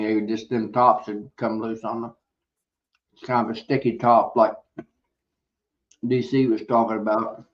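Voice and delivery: talking while chewing; words around a mouthful of food; mouth full. Real, not acted. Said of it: "talking with my mouth full".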